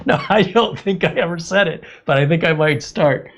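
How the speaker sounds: excited. Real, not acted. Delighted by suggested slogan.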